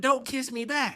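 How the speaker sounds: high, voiced echo of her order; incredulous quoting. Confused kid quotes the girl's order, high incredulous voice. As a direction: throw the order back in high-pitched disbelief.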